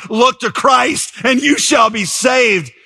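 high, drawn-out proclamation; acted preacher's cry. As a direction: call it out high and slow.

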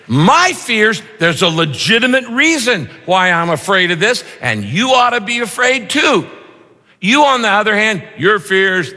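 mock certainty, pitch up; smug self-justifying. Preacher mocking our own view of our fears, smug.

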